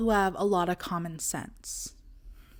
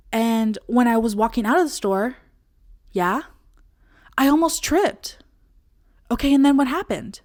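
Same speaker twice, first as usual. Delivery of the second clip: mock dramatic friend; 3 semitones higher, 5 dB louder, faster than usual. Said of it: "friend who I consider a stone fruit".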